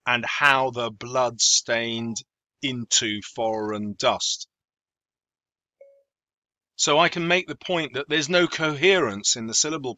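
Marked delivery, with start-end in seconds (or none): 0.1-4.5 slow, rising stress on "how", "blood", "into", "dust"; slow da-DUM da-DUM, land on "dust"; iambic reading. Shown as a demonstration. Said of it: "the next line becomes iambic".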